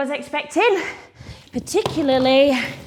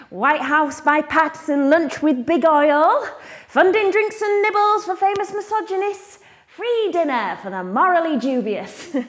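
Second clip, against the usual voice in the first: raised, emphatic sales-pitch voice; pitched up, mock-grand billing; mock event billing; 4 semitones higher than usual. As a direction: announce it like a tempting lunch invitation. Mock pitch of the fake invitation.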